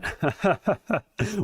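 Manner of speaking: breathy high-pitched chuckle; high laugh. Real, not acted. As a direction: laugh at yourself. Laughing at own mistake.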